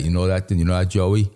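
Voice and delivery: loose, lazy Queens accent; demonstrating sloppy Queens speech; lazy-tongued Queens talk. Shown as a demonstration. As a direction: let the tongue lie slack, Queens style. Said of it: "So when we talk like that".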